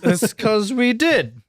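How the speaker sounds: slow tipsy drawl. Real, not acted. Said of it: "why we sound drunk".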